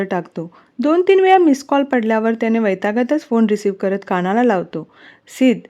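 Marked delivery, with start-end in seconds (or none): 5.3-5.6 raised pitch, irritated accusation; mildly irritated phone challenge; annoyed. Acted. Veera challenges Siddh for ignoring her call, annoyed. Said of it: "वीरा चिडून बोलते".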